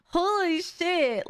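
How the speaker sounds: high, drawn-out disbelief; stunned amazement. Real, not acted. Streamer still reeling from the orc voice reading, amazed. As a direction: let the amazement stretch the words.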